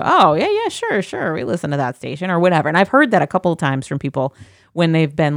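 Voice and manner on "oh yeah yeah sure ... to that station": imitating coworkers. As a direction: play the excited fan. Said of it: "you know".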